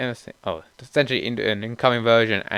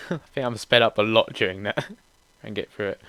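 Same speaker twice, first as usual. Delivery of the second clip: laughing; 4 semitones lower than usual. Real, not acted. Laughs at own speed.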